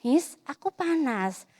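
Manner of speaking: slow, gentle little voice stating it; calm child. Retold or imitated. Four-year-old calmly telling Miss she is hot. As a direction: tell the teacher calmly, slowly. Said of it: "Tapi dia nggak".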